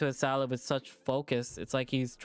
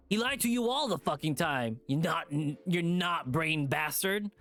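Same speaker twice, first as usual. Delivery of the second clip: mild snarl. Acted. Leo snarling at T J for defending Chase, mildly. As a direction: snarl it at him with contempt. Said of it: "Leo snarls".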